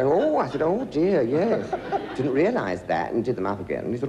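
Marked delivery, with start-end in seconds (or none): 0.0-1.7 higher, louder embarrassed oh dear; startled oh. Retold or imitated. Actor realising his flies are open, flustered surprise. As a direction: caught out, flustered.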